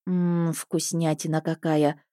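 slow, soft savouring; quiet, slow delight; blissful. Acted. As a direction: melt over the chocolate, slowly. Savouring chocolate.

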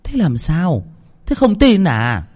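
high, rising surprised question. A narrator's reading. Mother surprised at her daughter's reaction. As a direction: ask it astonished, slowing. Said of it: "Bà Hương ngạc nhiên".

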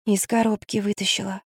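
hushed, guilty admission; guilty whisper. Acted. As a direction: confess it under your breath. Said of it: "прошептала Магда".

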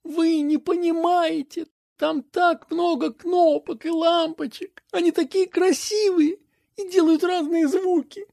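put-on a child dreamily explaining gadgets; young boy, a bit wistful; boy's voice. A narrator's reading. Narrator voicing the boy.

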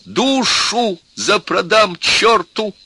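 high, drawn-out desperate cry; near hysterics. A narrator's reading. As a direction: cry out as if losing control. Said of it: "начиналась истерика".

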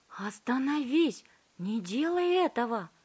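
high, loud urgent plea; alarmed Wonka. A narrator's reading. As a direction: cry out to stop her. Wonka shouting to stop her.

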